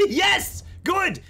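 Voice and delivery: a real burst of delight; excited cheer. Real, not acted. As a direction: celebrate the win. Cheering in-game success.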